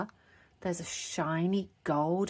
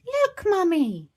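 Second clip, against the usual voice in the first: much higher, louder, slow call; 13 semitones higher, 8 dB louder, slower than usual. Acted. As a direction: call across the beach to mum. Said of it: "she called".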